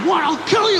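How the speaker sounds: very high yelled threat; shrieking threat. Retold or imitated. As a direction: shriek it in terror. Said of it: "he's like".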